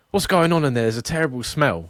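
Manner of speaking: indignant Karen. Retold or imitated. Karen at a man's bathroom window, indignant. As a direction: lightly mimic an outraged Karen. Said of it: "of the Karen that's knocking".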